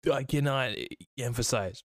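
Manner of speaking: words broken by a burp. Real, not acted. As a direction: talk through a soda burp. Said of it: "it's making me burp a lot".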